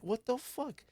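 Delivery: high-pitched indignant squeal of disbelief; incredulous exasperation. Retold or imitated. Streamer reacting to her dad's dismissal of tears, exasperated. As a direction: pitch way up, baffled and annoyed.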